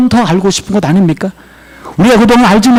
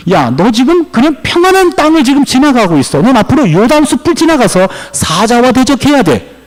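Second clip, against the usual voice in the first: higher, urgent acted warning; rebuking; 5 semitones higher than usual. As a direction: press the challenge home with raised pitch. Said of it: "이렇게 책망하는 거예요".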